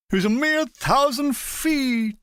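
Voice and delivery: lightly drawled W C Fields voice, slow; a hint of W C Fields, slow and lazy; W C Fields impression. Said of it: "imitating W C Fields".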